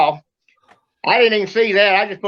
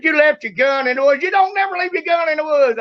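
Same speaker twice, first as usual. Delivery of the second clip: raised-pitch parental telling-off; retold scolding; 5 semitones higher than usual. Father scolding the boy about his gun, retold scolding.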